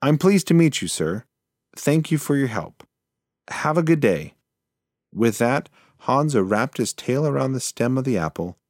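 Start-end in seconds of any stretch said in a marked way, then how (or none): 0.0-4.4 higher, louder small mouse politeness; a quick polite goodbye. Acted. Mouse politely takes leave.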